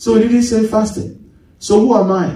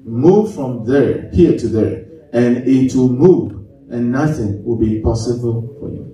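slow reading; 6 semitones lower than usual. Shown as a demonstration. Pastor rereads the verse to the church, slowly. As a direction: read each phrase slowly and deliberately.

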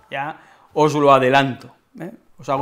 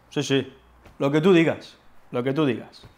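dismissive yes-yes; 3 semitones lower, 6 dB quieter than usual. Acted. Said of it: "significado irónico".

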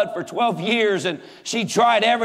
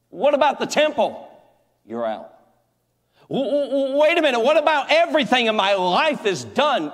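desperate leper; 4 semitones higher than usual. Acted. Leper voiced in retold scene.

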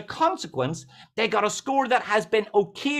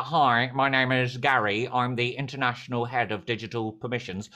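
Gary; 8 semitones lower than usual. Retold or imitated. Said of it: "that's exactly how he sounded".

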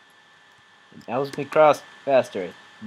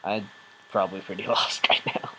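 whispering; 3 semitones lower than usual. Real, not acted. Whispered aside.

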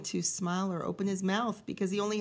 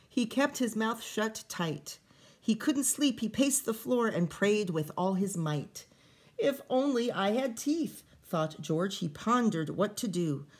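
lively read-aloud storytelling voice; story reading; 4 dB louder than usual. A narrator's reading. Teacher reading a picture book to kids, lively storytelling. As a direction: read the rhyming story to the children.

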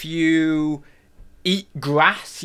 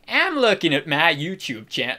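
exaggerated attempt at Southern twang; deliberate Southern accent. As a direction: lean on purpose into a mock Southern accent. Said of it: "we'll just go southern, shall we?".

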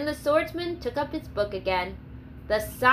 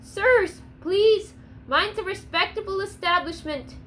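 higher, pleading tavern keeper close to tears; a touch of panic, pitched up and pleading; near tears; 7 semitones higher than usual. Acted. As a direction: beg them to stop, voice rising high. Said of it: "looked as if he would cry".

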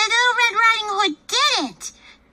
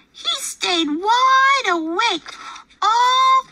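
building shout; 5 semitones higher, slower than usual. Acted. Story climax, building shout.

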